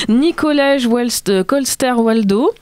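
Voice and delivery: slow, unsure stab at a Danish name in a clumsy Danish accent; hesitant attempt at Danish pronunciation. Shown as a demonstration. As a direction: sound out the Danish name carefully, apologetic Danish accent. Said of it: "l'accent, euh, pourri".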